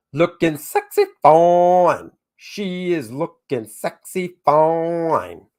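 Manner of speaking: slow, lingering admiring croon; sultry drawl. Pretend. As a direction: savour each word slowly. Admiring the book cover.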